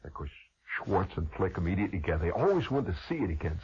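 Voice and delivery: ordinary delivery, nothing marked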